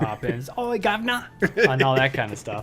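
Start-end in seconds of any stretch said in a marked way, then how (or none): 0.6-1.3 high-pitched mock Cockney cry; over-the-top British accent. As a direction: ham up a cartoonish British accent, Mary Poppins style. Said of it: "Americans do British accents, and it's just way over the top".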